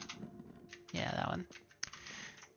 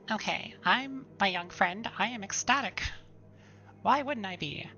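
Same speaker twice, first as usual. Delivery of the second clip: excited nerd; 4 semitones higher, 6 dB louder than usual. Acted. Voices excited old historian NPC.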